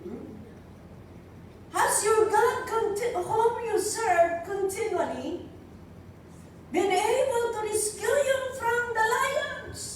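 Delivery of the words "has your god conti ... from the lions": the king cries out in worry; anguished king. Acted. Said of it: "in an anguished voice".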